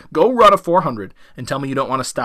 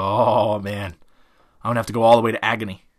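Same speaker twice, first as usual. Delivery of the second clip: low groaned "oh man", then a quicker grumble; lightly acted weary dread, pitched down; resigned dread; 6 semitones lower than usual. Dog foreseeing a long hard bite, mock resigned dread. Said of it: "they know what's coming".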